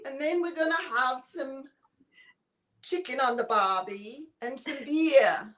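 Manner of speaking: hammed-up Australian accent, shouted start; mock Aussie, chicken on the barbie bravado. The speaker introducing herself to viewers in a hammed-up Australian accent. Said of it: "for Australian for beer".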